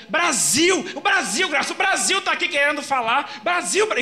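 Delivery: high, loud urgent yelling; trance shout. Retold or imitated. Medium shouting that Brasil wants to talk, high and loud. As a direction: cry the name out as the spirit pushes to speak. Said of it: "E ela começou a gritar".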